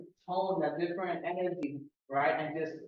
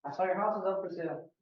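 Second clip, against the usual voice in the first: friendly; 4 dB quieter than usual. Shown as a demonstration. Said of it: "Pretend you're calling your best friend".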